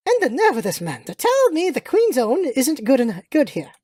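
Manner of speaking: affronted English lady, lightly played; indignant British lady. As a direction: complain like a haughty British lady.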